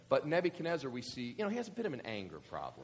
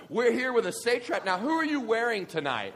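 gushing red carpet chatter; 10 semitones higher, 9 dB louder than usual. Pretend. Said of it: "Babylon Entertainment Tonight".

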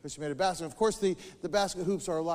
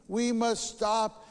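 resolving; 4 semitones higher, much slower than usual. Acted. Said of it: "they resolve".

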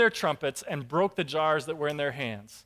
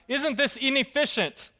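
higher, louder, pleading disbelief; a believer doubting aloud at the cross; anguished doubt; 6 semitones higher, 4 dB louder than usual. Retold or imitated. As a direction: question God in exasperated bewilderment. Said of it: "it has to be going through his mind".

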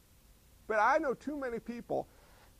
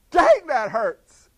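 mild unbothered wince; 4 semitones higher, 12 dB louder, much slower than usual. Retold or imitated. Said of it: "Paul probably went".

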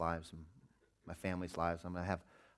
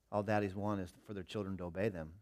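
put-on softer, tender words to a child; gentle explanation; 5 dB quieter than usual. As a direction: explain it kindly to your son. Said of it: "I said".

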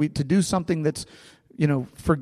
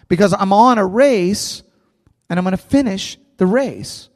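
raised, emphatic plea to friends; acted firm, heartfelt insistence; impassioned appeal; 5 semitones higher, 4 dB louder than usual. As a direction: push back earnestly, voice lifted. Preacher voices Paul's firm appeal.

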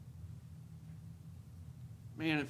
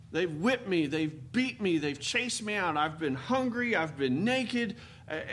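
louder, building fervor as Paul; impassioned preaching; 3 semitones higher, 3 dB louder than usual. Acted. Preacher acting out Paul's hardships, raised and fervent. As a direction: preach Paul's trials with rising force.

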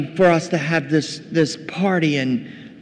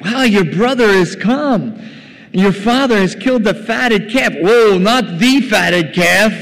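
loud, high, amazed announcement; excited servant; 6 semitones higher, 5 dB louder than usual. Retold or imitated. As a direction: break the big news, punching the words hard and high. Excited servant reports the feast.

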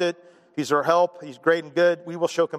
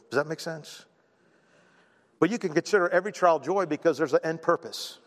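ordinary talk, nothing marked

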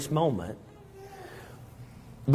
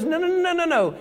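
insistent Christ; 14 semitones higher, much faster than usual. Acted. Christ cuts off the believer.

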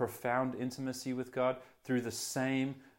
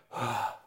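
final exhale. Retold or imitated. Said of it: "he exhaled and expired".

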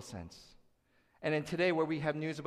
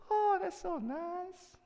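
much higher, slow, sugary gush; mock gushing; much slower than usual. Preacher mocking how churchgoers sweetly treat the verse, mock gush. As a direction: coo it like a sentimental fan. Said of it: "And we do this".

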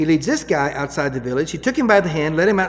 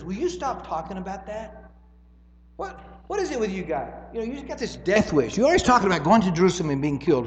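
hushed rebuke; 3 semitones higher, 6 dB quieter than usual. Retold or imitated. Peter rebuking Jesus privately.

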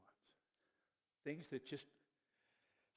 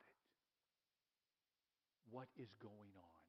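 softer, slow questioning of God, dropping away; hushed plea; 5 semitones lower, 11 dB quieter than usual. Retold or imitated. Habakkuk asking God why he does nothing, hushed and pleading. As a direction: press God quietly, words fading to breath.

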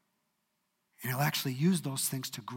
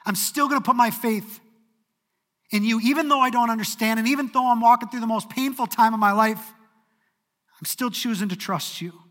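fervent declaration; 7 semitones higher, 8 dB louder than usual. Acted. A believer declaring trust in God through pain, fervent and loud. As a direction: proclaim it with full conviction. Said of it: "They said".

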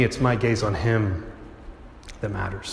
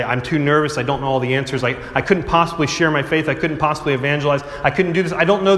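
nervous excuse; 2 semitones higher than usual. Retold or imitated. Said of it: "I have heard many adults and teens say".

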